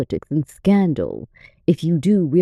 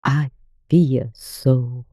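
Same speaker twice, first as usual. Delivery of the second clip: put-on high, very slow, amused old lady; laughing old lady; 8 semitones higher, much slower than usual. A narrator's reading. Old lady answering her guest as she stands, amused. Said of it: "laughing as she stood up".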